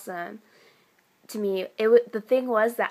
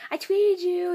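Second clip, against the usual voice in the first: high, louder mock squeal; fangirl freaking out; 9 semitones higher, 5 dB louder than usual. Next girl freaking out over the actor, excited imitation. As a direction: imitate an overexcited fan, pitched way up. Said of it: "freaking out over him".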